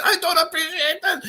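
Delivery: retelling the waiter while laughing; laughing impression. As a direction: try to quote him but crack up.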